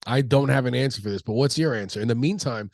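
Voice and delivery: blocked nose from allergies; stuffy nose. Real, not acted. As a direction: talk through a stuffed-up nose. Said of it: "apologize for sounding stuffy right now".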